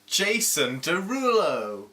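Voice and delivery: slow, drawn-out mock announcement; 故作夸张地慢慢宣布名字; announcer voice. Mock-announcing a character name.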